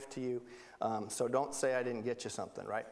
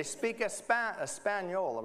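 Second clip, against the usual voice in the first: mock Spanish; 5 semitones higher, slower than usual. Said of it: "that sounds like Italian".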